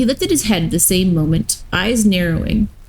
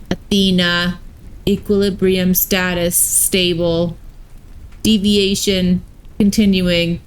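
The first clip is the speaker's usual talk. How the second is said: lightly voiced robot warden; even, mechanical robot delivery. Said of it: "had robot voices".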